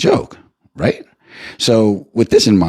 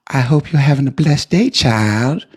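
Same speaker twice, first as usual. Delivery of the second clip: put-on higher, sweet churchy old lady voice; elderly church lady driver; 7 semitones higher than usual. Uber driver greeting her rider, high sweet old lady voice. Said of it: "she say".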